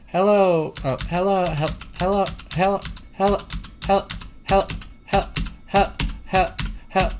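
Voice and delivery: put-on baby-talk greeting a critter; playful stuttered hello. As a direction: coo at the bug with broken-off hellos. Greeting a game creature playfully.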